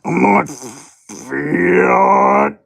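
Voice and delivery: drawn-out mock protest in character; Lady L voice. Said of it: "says Lady L".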